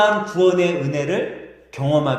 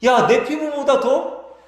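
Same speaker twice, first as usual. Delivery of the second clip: much higher, amazed questioning; astonished crowd; 8 semitones higher than usual. Acted. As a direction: gasp at the healed skin in disbelief. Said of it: "깜짝 놀라는 거예요". (깜짝 놀라 묻는 군중 목소리)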